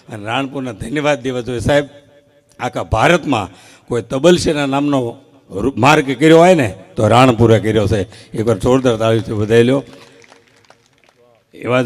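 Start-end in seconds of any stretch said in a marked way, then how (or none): 2.6-9.8 stage announcer calling for a big hand; crowd hype. Real, not acted. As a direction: build it up for the applause. Hyping the crowd for applause.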